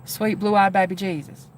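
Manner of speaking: lightly imitated Southern accent. Streamer quoting the guy from yesterday's phone call, imitated southern accent. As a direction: give a hint of his Southern twang. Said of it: "they both had southern accents".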